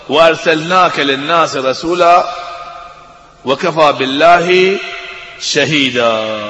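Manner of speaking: Quran recitation. Acted.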